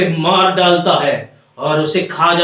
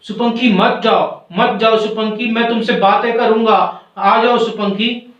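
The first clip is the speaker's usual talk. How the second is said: higher-pitched pleading call; mild acted cry to come back; calling out after; 4 semitones higher than usual. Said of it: "अंतरात्मा चिल्लाती है पीछे से".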